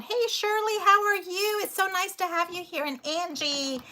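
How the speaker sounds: high, bubbly hello to friends; excited greeting. Real, not acted. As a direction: sing out a cheery welcome. Greeting viewers arriving in chat.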